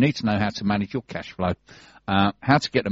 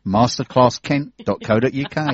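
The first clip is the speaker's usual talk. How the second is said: put-on London accent; 3 semitones higher, 3 dB louder than usual. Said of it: "You went really Londoner then".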